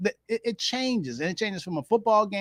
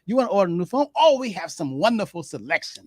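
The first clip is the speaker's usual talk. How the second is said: eager salesperson. Retold or imitated. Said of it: "other line says".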